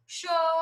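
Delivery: "Chocolate" broken into four separate, held syllables; split into syllables. Shown as a demonstration. Teacher counting the syllables for pupils, split apart. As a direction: count out "Chocolate" with a pause after each syllable. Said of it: "Quantas vezes você fala a palavra".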